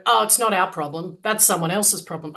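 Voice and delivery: put-on light Aussie accent, shrugging it off; Australian accent, dismissive. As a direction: brush it off in a mild Australian accent. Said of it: "I'm putting on my best Aussie accent".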